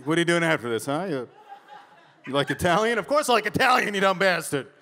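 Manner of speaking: loud insulting date invite, rising high; acted-out loud bickering; mock gruff exchange. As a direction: bark affection as if still fighting. Fighters making a date while insulting.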